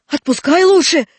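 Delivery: put-on high, loud boy's shout; shouted demand. Васька demands his friend's release, shouted demand. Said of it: "крикнул Васька".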